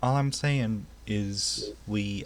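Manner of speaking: put-on "All I'm saying is we" drawn out slowly in a southern accent. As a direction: retake it slow and southern. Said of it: "I can't do any other accent besides a southern accent".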